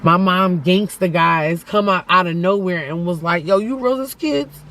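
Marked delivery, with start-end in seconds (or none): 3.5-4.6 gangster yelling. Retold or imitated. Mom's gangsta friends yelling at boys.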